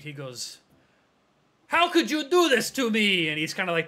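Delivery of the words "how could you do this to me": loud, high cry of betrayal; anguished yell, pitched well up; yelling down the street. Acted. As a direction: yell the accusation down the street at an old friend. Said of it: "he just yells down the street".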